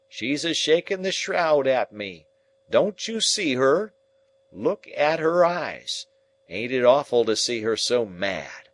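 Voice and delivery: high, loud panicked raving; terrified raving. Acted. Sick man raving in terror at a ghost. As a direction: rave in terror at a vision. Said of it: "he cries out".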